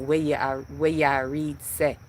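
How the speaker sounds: quoting in Jamaican patois; Jamaican accent. Acted. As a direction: slip into a Jamaican accent for the phrase. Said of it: "with my Jamaican voice".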